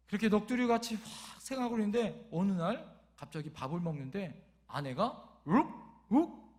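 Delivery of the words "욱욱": two short mock retches; imitated dry heave. Wife retching suddenly at the meal, imitated dry heave. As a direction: gag briefly as if queasy. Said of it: "헛구역질 하더래".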